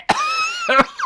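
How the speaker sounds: rasping hacking cough; smoker's cough. Real, not acted. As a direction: hack out a rough cough. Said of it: "My smoker's cough".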